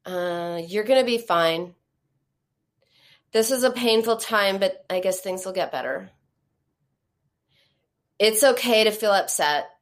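grudging. Shown as a demonstration. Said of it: "This is what they sounded like".

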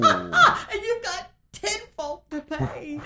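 high, loud and drawn out with laughter; slow, laughing exasperation; laughing dismay. Real, not acted. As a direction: laugh through the disaster as you tell it. Laughs over bounced payroll check.

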